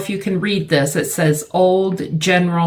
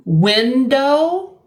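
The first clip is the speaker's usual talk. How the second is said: window raised and rising; 5 semitones higher than usual. Shown as a demonstration. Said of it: "has two".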